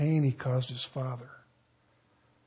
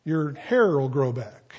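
lightly voiced mock TV faith preacher. Pastor mocking TV preachers for his congregation, light mock voice. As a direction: poke fun at a TV faith promise. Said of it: "those guys on T V".

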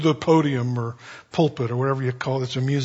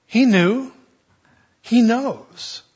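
higher, anxious realization; higher pitched alarmed whisper; worried disciples; 7 semitones higher, 3 dB louder, much slower than usual. Retold or imitated. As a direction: voice the disciples dawning dread.

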